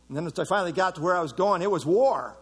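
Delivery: quick, rising build that lands loud and hard on "war". Retold or imitated. Preacher tells the church ministry is war, building to a loud punch. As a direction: rush the lead-in, then hit "war" loud.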